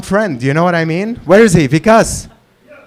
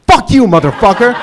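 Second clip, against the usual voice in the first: mock outrage; 3 semitones higher, faster than usual. Playful outrage at guy above.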